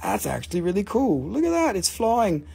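high, squeaky little cube voice; voice of a flying pyrite cube. Acted. Seller voicing his pyrite cube, squeaky high. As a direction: give the tiny cube a chirpy voice. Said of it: "It's like".

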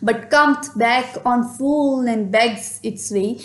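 slow, measured reading of verse; poem recitation. Acted. Teacher reading verse lines to the class, slow and measured. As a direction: read the lines out slowly, like a poem.

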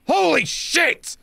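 high, slow astonished exclaim; amazed. Real, not acted. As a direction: stretch out the disbelief. Reacting to many errors.

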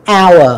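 "hour" said like "our"; silent H. Shown as a demonstration. Teacher showing students the mute letter, silent H. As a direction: start "hour" on the vowel, no H. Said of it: "giống như là sở hữu của chúng ta".

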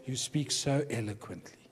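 soft, laughing retelling; quiet amused repeat of the compliment; mock compliment. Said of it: "And so what does he say?".

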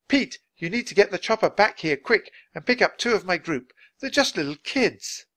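urgent, high and loud radio plea; Nancy. Acted. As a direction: press the pilot to hurry back.

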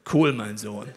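very low, slow booming God voice; deep God voice. Acted. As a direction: speak as God, deep and unhurried. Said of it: "Gott fragt ihn mit tiefer Stimme".

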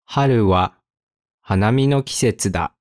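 careful, long pause after the topic. Shown as a demonstration. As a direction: break it up for learners. Example read slowly, then at speed.

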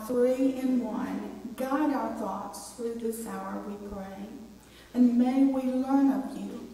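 measured, solemn prayer with even intonation; public prayer. Real, not acted. Preacher praying with the congregation, measured and reverent.

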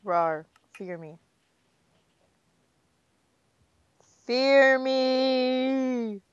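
playful monster growl. Pretend. Panda avatar playing scary monster.

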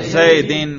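slow, careful जैदिन with -in ending; jarr ending demo. Shown as a demonstration. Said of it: "जर पे करें".

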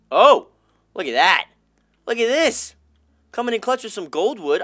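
loud, high burst of delight; excited. Real, not acted. Thrilled as a viewer drops gold wood, loud and high. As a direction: yelp of surprise at the gift.

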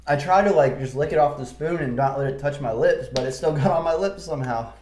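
talking through a burning tongue; strained speech with mouth on fire; mouth burning from spicy food. Real, not acted. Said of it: "Full tongue burn".

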